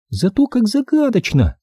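put-on high, thrilled girl's voice; eager girl. A narrator's reading. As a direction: relish the mystery. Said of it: "В предвкушении облизнулась Оливия".

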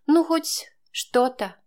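slow, dry irony; a slow, wry jab; ironic. A narrator's reading. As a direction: let the irony drip, unhurried. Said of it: "сиронизировала она".

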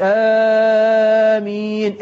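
آمين with the vowels reversed, long and loud; wrong amen. Shown as a demonstration. Preacher showing the reversed wrong amen. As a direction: drag آمين out loudly with the lengths flipped. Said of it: "اعكس، اعكس".

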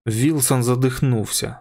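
plain reading voice

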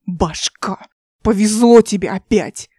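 ordinary delivery, nothing marked

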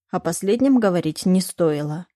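plain reading voice

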